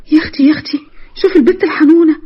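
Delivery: giggling mock swoon; teasing laughter. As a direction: tease her friend through a laugh. Ola teases her friend, laughing.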